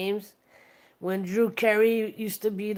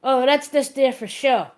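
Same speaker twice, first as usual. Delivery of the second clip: breezy dismissive quip; 4 semitones higher, 7 dB louder than usual. Retold or imitated. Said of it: "he's like".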